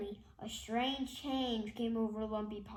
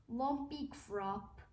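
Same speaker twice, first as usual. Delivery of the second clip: moaning; slower than usual. Acted. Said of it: "moaned Mister Krupp".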